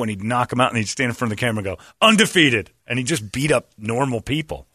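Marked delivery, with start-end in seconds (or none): 2.0-2.7 loud, high gloating boast; mock boast. Bully films himself, gloating to camera. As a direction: crow it at the camera.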